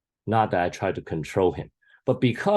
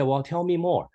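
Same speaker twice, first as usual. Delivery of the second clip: gentle invitation; 9 semitones higher than usual. Retold or imitated. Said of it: "And so I said".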